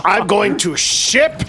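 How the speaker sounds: giggling through the words, slow; laughing while teasing. Real, not acted. Laughing excited shipping.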